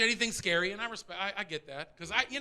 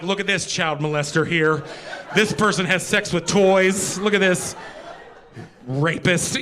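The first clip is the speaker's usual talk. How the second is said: suspicious detective; 4 semitones lower, 5 dB louder than usual. Retold or imitated. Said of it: "I'm Elliot Stabler".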